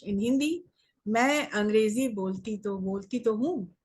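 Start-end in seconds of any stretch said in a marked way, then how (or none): 1.1-3.7 demonstrating emphasis with a lifted "हूँ"; emphatic assertion. Shown as a demonstration. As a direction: stress on "तो हूँ". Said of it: "You are emphasizing on the word".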